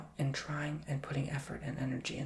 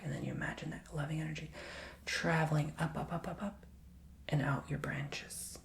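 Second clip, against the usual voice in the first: guided visualization. Acted. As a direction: lead them gently into the earth.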